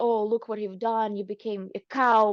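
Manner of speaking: ordinary delivery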